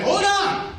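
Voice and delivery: high-pitched comic protest; mock panicked plea. Comedian stopping an imagined Klansman, mock panicked plea. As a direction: plead in a high voice, drawing out the end.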